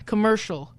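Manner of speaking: COMMERCIAL said carefully with an r-coloured "mer". Shown as a demonstration. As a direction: pronounce "commercial" as com-MER-shul, corrected. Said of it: "Is that better?".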